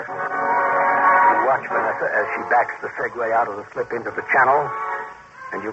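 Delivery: steady narrator voice over music; story narration. A narrator's reading. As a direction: narrate it like radio drama. Second-person story narration.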